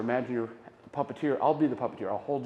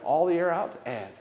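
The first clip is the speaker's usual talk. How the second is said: guided breath. Shown as a demonstration. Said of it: "So here we go".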